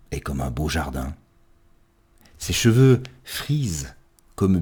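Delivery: measured verse with spacious pauses; poem recitation. Acted. Child praising mother and father as a garden, measured poetic recitation.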